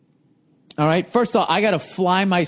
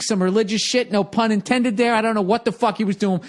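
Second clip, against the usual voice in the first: normal talking voice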